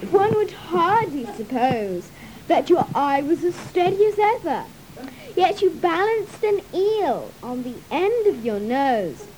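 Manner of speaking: loud, eager youth; young man, loud. Acted. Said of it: "said the youth".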